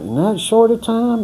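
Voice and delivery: high disbelieving squeak of a question; retelling his own stunned reaction, voice jumping up; incredulous. Retold or imitated. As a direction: act shocked at how short. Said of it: "I'm like".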